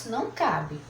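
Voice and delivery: ordinary delivery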